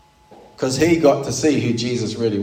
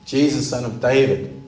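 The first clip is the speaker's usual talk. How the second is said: mildly raised plea, punched on "Jesus"; crying out; 2 semitones higher than usual. Acted. Preacher acting Bartimaeus begging for mercy, mild crying out. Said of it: "His focus is crying out to Jesus".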